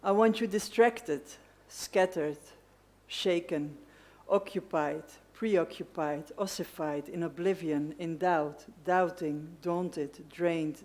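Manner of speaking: measured list-poem recitation with deliberate pauses; poetry reading. Acted. Poet reading a love poem to an event audience, measured recitation. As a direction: set each image apart, phrase by phrase. Reads own poem aloud.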